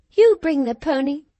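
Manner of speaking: high, tearful angry command; exclaimed order. A narrator's reading. Cathy orders the servant woman, high angry command. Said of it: "she exclaimed".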